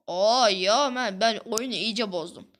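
drawn-out, frustrated wail at the game; loud exasperated groan. Real, not acted. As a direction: groan it out slowly, fed up. Broke the game, fed up. (bıkkın, uzatarak sızlanma)

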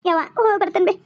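a daughter's tearful goodbye to her mother; tearful farewell. Acted. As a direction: take leave on the edge of tears. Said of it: "ಅಳಕ್ ಹೋಗ್ಬೇಡ". (ಅಳುತ್ತಾ ಬೀಳ್ಕೊಡುಗೆ)

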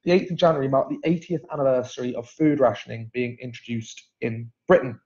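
"marked" said plainly in the past tense; corrected tense. Real, not acted. Host restates the rationing anniversary, fixing it to marked plainly. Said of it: "not marks".

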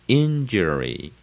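injury with weight on IN; stress at the front. Shown as a demonstration. Teacher repeating the model, injury stressed on IN. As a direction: lean on the first syllable of injury. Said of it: "重音在最前面".

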